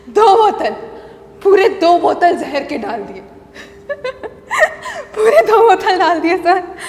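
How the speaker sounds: loud, breaking into tearful laughter; manic gleeful confession. Acted. Wife confessing the poison to sir, laughing madly. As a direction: gloat through crazed laughter.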